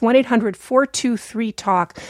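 slow dictation. Real, not acted. Repeating call-in number.

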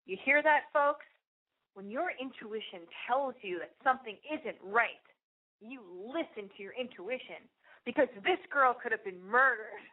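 a hint of a preaching carriage driver; lightly voiced tour guide. Carriage driver addressing the tourists, lightly acted cautionary lecture. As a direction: announce it as a mock warning to the group.

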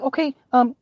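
very high, stammering questions; flustered dad. Retold or imitated. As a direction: stumble over the question. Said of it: "I'm like".

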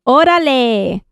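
Órale said with a Mexican Spanish lilt; drawn-out Mexican Órale; Mexican accent. Pretend. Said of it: "Órale is good".

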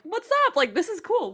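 mock casual. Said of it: "we were just like".

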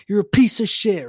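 high-pitched mock teenage rage; re-enacted pissed-off yelling. Teenager cursing his winning buddy, mock pissed off. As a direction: act out a half-volume gamer tantrum. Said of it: "I'm getting so pissed".

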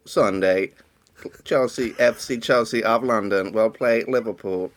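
stiff mechanical computer voice; robot voice. Acted. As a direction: read it out like a supercomputer. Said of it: "Do a, do a robot voice".

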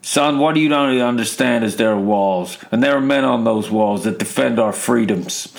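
lightly voiced film-courtroom speech; a hint of a stern military officer impression; Jack Nicholson. Dad lecturing son over the telly, as a light Jack Nicholson impression. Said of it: "go like Jack Nicholson in A Few Good Men".

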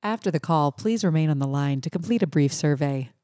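measured hold-line announcement; automated phone voice. Shown as a demonstration. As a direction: recite it as the recorded phone agent. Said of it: "likes my American voice for their voicemail".

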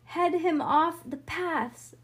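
high, drawn-out call; cried command. A narrator's reading. Bean directing Harlan and Franny, cried command. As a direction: call it across the field, slowly. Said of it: "Cried Bean to Harlan and Franny".

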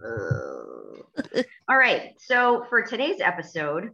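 ordinary talk

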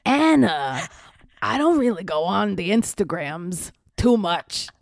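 licht gespeelde Steve-imitatie, traag en slepend; Steve-stem. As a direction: doe David Eigenberg als Steve, rustig en loom. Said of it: "I'll do it in his voice".

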